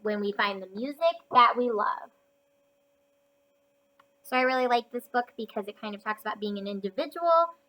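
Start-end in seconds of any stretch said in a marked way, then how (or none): 0.0-2.1 wise and gentle. Acted. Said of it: "he said".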